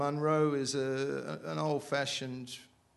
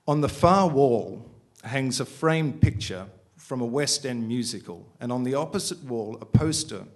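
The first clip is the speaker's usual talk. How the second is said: measured, projected reading aloud; story narration; 2 semitones higher, 10 dB louder than usual. A narrator's reading. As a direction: read the prose out deliberately to a room.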